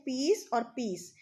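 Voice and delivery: पीस and पीस said alike, slowly; slow homophone demo; same sound twice. Shown as a demonstration. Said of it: "एक और homophones word".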